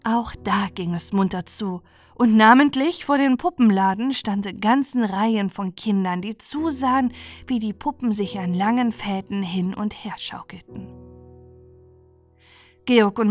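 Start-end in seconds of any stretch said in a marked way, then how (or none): none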